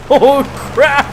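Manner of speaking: high, loud startled yelp; surprised. Real, not acted. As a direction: blurt it out in shock. Sudden mishap on camera.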